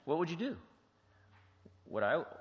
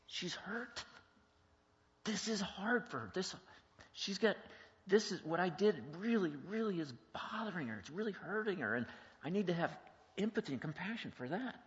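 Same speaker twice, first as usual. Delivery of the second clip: higher-pitched dawning understanding; empathetic realization; 8 semitones higher than usual. Acted. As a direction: think it through with compassion, pitch lifted. Acts out an empathetic inner thought.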